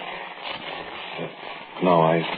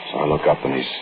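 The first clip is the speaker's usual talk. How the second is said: story narration. A narrator's reading.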